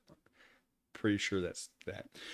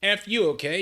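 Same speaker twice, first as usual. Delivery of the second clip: higher and louder mock rant; angry; 9 semitones higher, 6 dB louder than usual. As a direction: snap it like a bratty teen. Translation repeats the rant.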